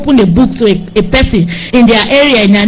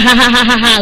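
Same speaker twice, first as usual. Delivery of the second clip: mocking laugh. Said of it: "We laugh".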